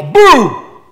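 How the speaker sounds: sudden loud playful boo; mock ghost boo. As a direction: jump out and shout boo to spook them. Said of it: "He didn't go".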